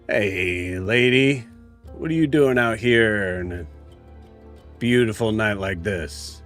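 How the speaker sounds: rough street thug calling out; gruff and leering. Acted. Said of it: "you hear a gruff voice just, just go".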